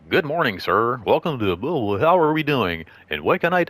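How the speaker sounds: a stiff customer-service greeting; overly formal shop welcome. Shown as a demonstration. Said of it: "I don't think I was like that".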